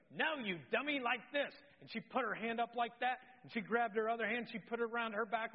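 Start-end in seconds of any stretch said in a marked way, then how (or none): 0.1-1.5 higher, louder mock scolding; exasperated wife. Scene: wife correcting husband's frame, higher mock scolding. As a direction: playfully chew out a clueless husband. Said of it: "And she goes".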